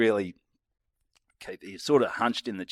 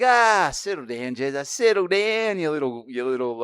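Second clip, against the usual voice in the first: retold dismissive soothing; 6 semitones higher than usual. Mate winding up angry friend, acted.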